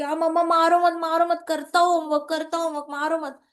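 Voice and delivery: a hint of a child's frantic pleading. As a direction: plead quickly with mother, repeating like a child. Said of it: "बच्चा कहते कि".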